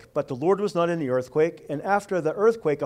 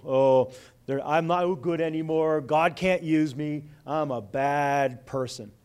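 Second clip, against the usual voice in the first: lightly acted defeated self-talk, slowing down; mock self-pity, dragging out the last words; 2 semitones lower, slower than usual. Fearful believer telling himself God is done with him, self-pitying. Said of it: "when we get fearful and we run".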